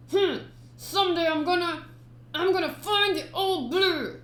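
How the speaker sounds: put-on a boy clinging to his dream.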